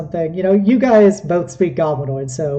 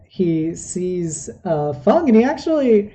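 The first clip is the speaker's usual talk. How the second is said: ordinary talk, nothing marked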